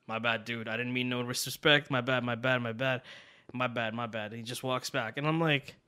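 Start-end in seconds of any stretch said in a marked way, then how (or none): 0.1-4.3 softer, repeated mumbled apology; apologetic backing off. Retold or imitated. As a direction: back down quietly, imitating a sheepish boyfriend.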